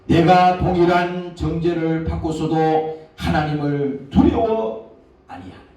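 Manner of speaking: slow stern rebuke of a fellow thief; rebuking thief. Acted. Thief rebuking the other thief, slow and stern. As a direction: slowly scold him to fear God. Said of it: "그 사람을 꾸짖어 가로되".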